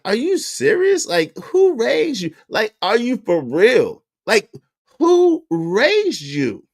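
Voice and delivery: mock outrage. Mocking what critics conclude.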